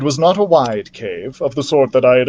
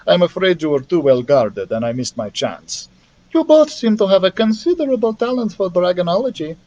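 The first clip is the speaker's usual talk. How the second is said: lightly voiced Russian accent, higher, coolly menacing; a hint of a Russian villainess gloating; 4 semitones higher than usual. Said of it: "friendly Russian dragonologist".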